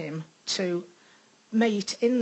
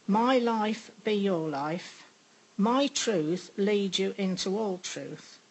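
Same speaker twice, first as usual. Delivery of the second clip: solemn reading. Acted. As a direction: read it like scripture, unhurried. Reads out a prophetic message.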